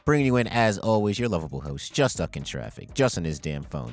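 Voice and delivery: big podcast host intro, building each name; hype host intro. Acted. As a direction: announce the crew like a showman.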